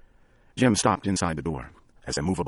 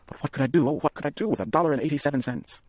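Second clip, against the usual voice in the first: Della despairing; 8 semitones higher than usual. A narrator's reading. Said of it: "she said to herself".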